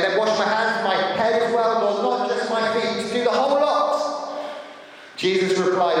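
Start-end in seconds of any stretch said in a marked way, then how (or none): 0.0-4.3 mildly eager, pitched up; eager exclaiming. Retold or imitated. Simon Peter to Jesus, lightly eager exclaiming. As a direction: ask for it all at once. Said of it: "Simon exclaimed".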